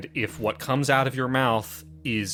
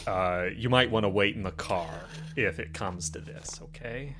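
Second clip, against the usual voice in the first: slow, serious warning. Acted. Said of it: "He's gonna say".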